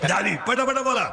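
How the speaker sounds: call-and-response preaching. Real, not acted. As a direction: leave the end rising for them to finish. (पोरांकडून वदवून घेणारा चढा सूर)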